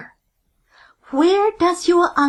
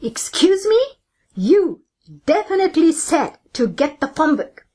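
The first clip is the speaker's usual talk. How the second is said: mild mock yell; 2 semitones higher than usual. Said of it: "The worker yells back".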